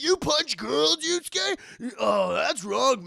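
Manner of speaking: high, loud mock disbelief; scandalized scolding. Acted quarrel, scandalized friend.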